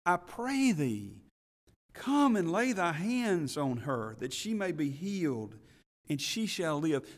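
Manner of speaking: desperate pleading. Retold or imitated. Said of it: "This was a desperate father".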